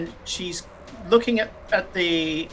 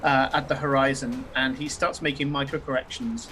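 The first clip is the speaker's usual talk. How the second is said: game master narration; 3 semitones lower than usual. A narrator's reading. Game master sets the scene.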